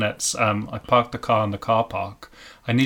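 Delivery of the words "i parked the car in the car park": South African accent. Shown as a demonstration. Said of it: "for South African".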